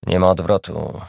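hoarse, low and ominous; ominous rasp. Acted. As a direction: rasp it out like a warning. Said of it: "zachrypiał Marian złowróżbnym tonem". (złowróżbny, zachrypnięty ton)

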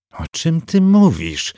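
high, slow, irritated character voice; a girl snapping in disbelief. A narrator's reading. Agnes irritated at the hamster's talk of priestesses, speaking high and slow. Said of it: "zirytowała się Agnes".

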